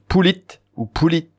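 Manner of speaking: "poulit", "pouli" with weight on the endings; stress on last syllable. Shown as a demonstration. Teacher giving both forms of joli, stress on the last syllable of "poulit" and "pouli". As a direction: land on "lit" and "li" in "poulit ou pouli". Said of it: "on a l'accent tonique sur la dernière syllabe".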